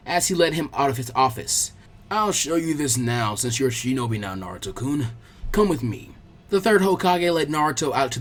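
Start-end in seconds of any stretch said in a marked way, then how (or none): 2.1-6.1 put-on lower, unhurried old master; calm old man. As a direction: invite the boy along, steady and kind. Hokage leads Naruto.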